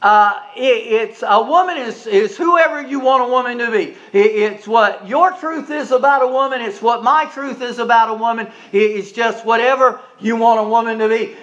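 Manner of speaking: mildly exasperated professor, stumbling over restarts; retold exasperation. Sociology professor finally answers the interviewer, mildly exasperated. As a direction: stammer towards an answer, lightly imitating exasperation. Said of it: "finally in exasperation".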